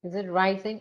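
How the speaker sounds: rising pushed up at the end; rising question. Shown as a demonstration. Teacher modelling question intonation, rising tune. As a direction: let Is it rising lift at the end. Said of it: "Just say to yourself in English".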